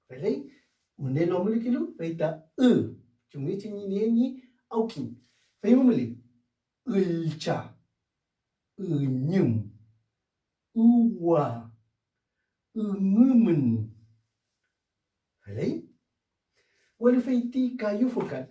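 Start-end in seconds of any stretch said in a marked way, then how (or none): 5.6-13.9 each word set off by pauses and said clearly; word drill. Shown as a demonstration. Teacher repeating drill words, careful pronunciation. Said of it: "drill words".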